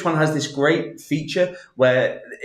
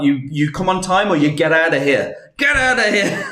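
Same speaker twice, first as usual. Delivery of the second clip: half-laughing mock scolding; mock stern; 2 semitones higher, 4 dB louder than usual. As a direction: playfully order him out. Mock scolding latecomer on stream.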